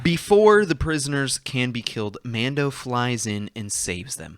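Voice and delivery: dramatic "previously on" narrator; recap voice. Pretend. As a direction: read it like a TV episode recap announcer. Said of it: "Had to say it in the recap voice".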